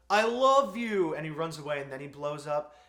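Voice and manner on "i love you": loud, slowed shout of I love you; mock shouted confession. Retelling Chris Pine's confession, mock loud shout. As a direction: yell it across the noise as he runs off. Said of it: "And he's like".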